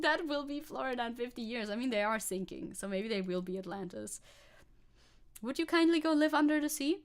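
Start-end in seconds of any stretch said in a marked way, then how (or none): 5.4-7.0 a bit louder, higher mock polite request; Bioshock quote. Streamer quoting Bioshock at right-wingers, mock polite. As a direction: quote Bioshock's "would you kindly" politely. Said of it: "Bioshock reference".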